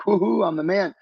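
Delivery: a quick triumphant woohoo, played back; elated whoop. Man reliving his Vegas party success, elated whoop.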